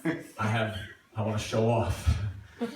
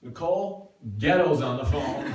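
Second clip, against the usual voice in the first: 1 sister calling out; 4 semitones higher, 6 dB louder than usual. Retold or imitated. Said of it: "She goes".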